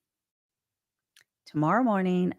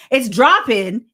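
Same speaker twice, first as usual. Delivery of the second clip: higher and louder, excited; louder repeat; 6 semitones higher, 9 dB louder, slower than usual. Real, not acted. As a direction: punch it up the second time.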